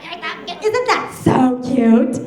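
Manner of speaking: hammed-up gushing, climbing into a high repetitive squeal; freaking out. Cousin gushing over her three-year-old, mock freak-out. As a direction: imitate a doting mom losing it over cuteness. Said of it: "My cousin starts freaking out".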